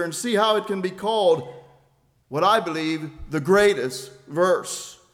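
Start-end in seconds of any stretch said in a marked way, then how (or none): 2.3-5.0 greatest leaned on as the key word; stress on greatest. Shown as a demonstration. Preacher stresses greatest to his congregation. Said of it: "with the emphasis on the word greatest".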